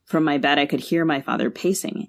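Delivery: measured literary reading, unhurried and even; story narration. Acted. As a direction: read the passage like an author at a launch. Author reads from her novel.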